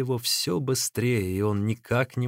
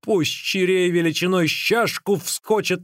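raised, emphatic oath; exclaiming; 6 semitones higher than usual. A narrator's reading. Runner swears off meat with an oath, exclaiming. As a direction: swear a curse upon yourself. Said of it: "воскликнул Ликуй".

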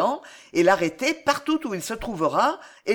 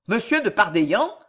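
astonished cry. Acted. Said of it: "s'écria Orthez d'Apremont, ébahi".

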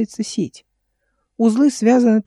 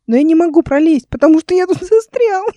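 loud, very high sobbing complaint; rising, acted boyish crying; tearful boy's wail; 9 semitones higher, 8 dB louder than usual. A narrator's reading. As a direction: wail it as a child bursting into tears. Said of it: "Мальчишка зарыдал".

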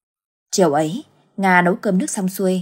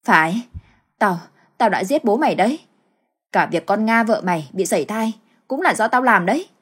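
cruel confession. Acted. Mother confesses her crimes cruelly.

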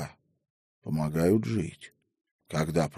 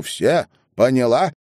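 loud, higher sharp retort; raised voice; 5 semitones higher, 5 dB louder than usual. A narrator's reading. Headwoman overrules the frightened grandmother, raised voice. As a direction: raise your voice to cut her off. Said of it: "повысила голос Беломестова".

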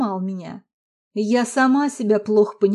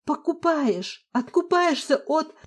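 much higher, slow, out of breath; choking with anger; 6 semitones higher, slower than usual. A narrator's reading. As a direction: gasp the words as anger chokes you. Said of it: "задохнулась я". (задыхаясь от злости, выше и медленнее)

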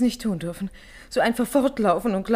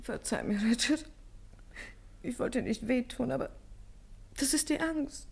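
soft apology; 10 dB quieter than usual. Acted. Contrite plea after the quarrel.

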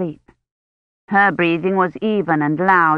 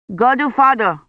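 louder call to someone away; 5 semitones higher, 3 dB louder than usual. A narrator's reading. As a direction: call a name across the room. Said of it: "he called out".

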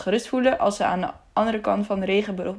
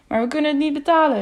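higher, fast, urgent protest; exclaiming; 6 semitones higher, faster than usual. A narrator's reading. Piak to the guard, unable to pay, urgent protest. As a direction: blurt it out in dismay. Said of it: "riep Piak".

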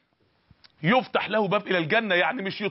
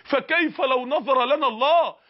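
solemn reply. Retold or imitated. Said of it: "قالت لها".

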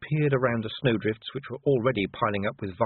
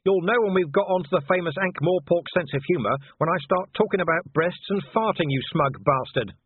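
loud, higher scornful insult; angry shout; 8 semitones higher, 4 dB louder than usual. Acted. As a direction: hurl the insult up.

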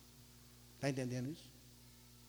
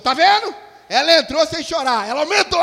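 much higher, much louder frantic outburst; teacher snapping; 11 semitones higher, 17 dB louder than usual. Retold or imitated. Retelling the teacher yelling at the crying child, frantic shout. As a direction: shout it like a fed-up teacher losing it. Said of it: "a professora surtou".

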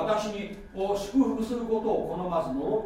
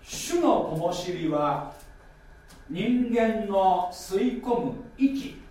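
slow reading of Proverbs; scripture reading; much slower than usual. Acted. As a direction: read the proverb slowly and deliberately. 箴言二十の二十七。. (ゆっくりした箴言の朗読)

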